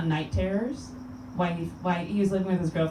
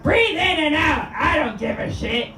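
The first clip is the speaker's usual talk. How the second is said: loud, higher parody of a calm meditation voice; a hammed-up, loud higher meditation narrator; mock meditation guide; 8 semitones higher, 5 dB louder than usual. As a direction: sell it like a meditation track gone rude. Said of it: "Here's what that meditation was like".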